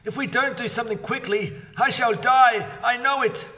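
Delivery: fast, high, then shouted; hysterical. A narrator's reading. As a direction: build from a gabble to a shout. Wife fears dying.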